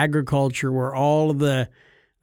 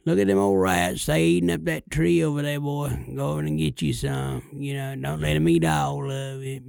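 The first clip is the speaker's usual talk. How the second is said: lazy Texas drawl. Retold or imitated. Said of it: "kinda more kick back".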